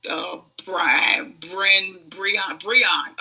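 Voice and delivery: groping through name variants; stumbling name guesses. Shown as a demonstration. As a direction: try Brian, Bren, Breon haltingly. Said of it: "it sounds like".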